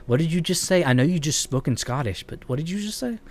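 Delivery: rising, incredulous Southern-free "what did you just say?"; baffled disbelief. Retold or imitated. Streamer retelling his puzzlement at a Scottish friend, incredulous. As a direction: quote a confused friend, pitch climbing. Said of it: "I'd be like".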